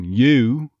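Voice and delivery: "you" as "yuh-OO"; loud, stressed "you" sliding into oo; on-glide oo. Shown as a demonstration. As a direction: glide onto the oo in a strong "you". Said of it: "that on glide onto the oo".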